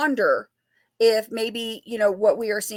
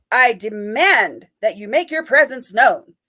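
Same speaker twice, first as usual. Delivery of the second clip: mock commanding demand; 6 dB louder, slower than usual. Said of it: "Let me, let me try that again".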